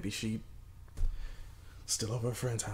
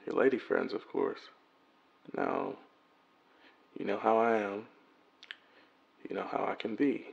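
worried message left on a phone; voicemail message; 4 dB louder than usual. Acted. Man leaving his missing girlfriend a worried voicemail. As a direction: leave an anxious, tender voicemail.

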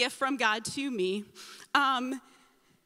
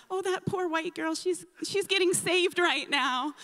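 higher-pitched mock pity; pitying onlookers; 6 semitones higher than usual. Onlookers remarking on the crying girl, mildly hammed-up pity. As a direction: lightly imitate sympathetic churchgoers.

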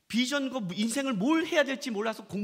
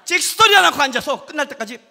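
loud, animated storytelling; excited retelling; 4 semitones higher, 11 dB louder than usual. Retold or imitated. Pastor telling the congregation about the optician, excited. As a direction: tell it with a thrill, louder.

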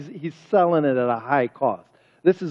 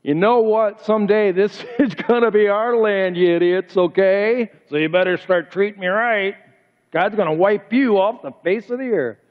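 mock bullying, a little raised in pitch; hammed-up warning with a laugh slipping in; disrespectful threat; 3 semitones higher than usual. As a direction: play a cocky, entitled threat. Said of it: "he doesn't come up to 'em and say".

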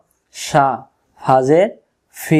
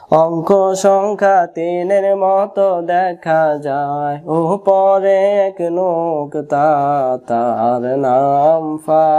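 slow, drawn-out textbook recitation; slow reading aloud; much slower than usual. Shown as a demonstration. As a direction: read each word out very slowly, like a primer. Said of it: "এখানে লেখা আছে".

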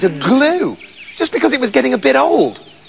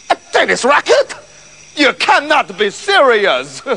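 appalled and drawn out; incredulous cat; 3 semitones higher, slower than usual. Acted. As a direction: react in outraged disbelief. Cat hears its horrible fate.

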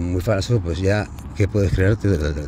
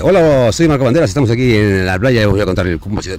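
presentador de vlog fingido y agudo; burla de vídeo editado. Pretend. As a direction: saludo exagerado de youtuber. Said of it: "Ni de". (tono de presentador de playa burlón)

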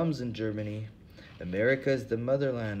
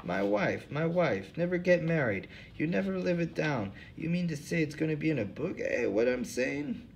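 put-on old hobo, voice pitched well up; 5 semitones higher than usual. Hobo Lou Jenkins to the interviewers, in a high put-on voice. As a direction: play the suspicious bum, pitched high.

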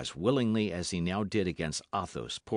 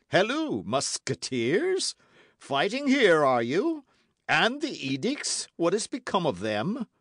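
high, loud challenging voice; accusing shout; 11 semitones higher, 6 dB louder than usual. A narrator's reading. Jussac confronts the musketeers, loud and accusing. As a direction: catch them in the act and demand answers.

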